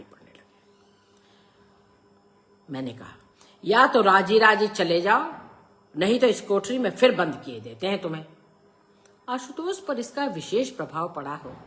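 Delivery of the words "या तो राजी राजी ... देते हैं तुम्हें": loud, raised-pitch ultimatum; stern threat. A narrator's reading. Father threatening to lock his stubborn son up, stern and loud. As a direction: lay down a forceful ultimatum.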